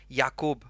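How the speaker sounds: "Jakob" said "YAH-koob", with a Y start and "oo" in the second syllable; foreign pronunciation. Shown as a demonstration. Streamer shows viewers one language's way of saying his name. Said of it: "in some languages, you pronounce it".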